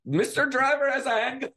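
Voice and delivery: high-pitched, badly imitated African accent; horrible impersonation of a local. Onlooker announcing the driver's handgun, in a badly imitated African accent. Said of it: "doing a horrible impersonation of them".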